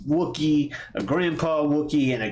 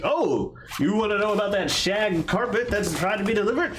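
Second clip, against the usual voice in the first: higher, bright shopkeeper chatter; high-pitched chatty voice; 6 semitones higher than usual. Retold or imitated. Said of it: "he's like".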